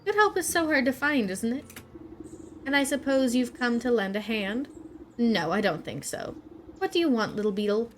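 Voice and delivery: a hint of a haughty bee queen looking down; scornful queen. Bee queen addressing the player, lightly scornful. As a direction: sniff at the visitor. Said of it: "looks down ... at you scornfully".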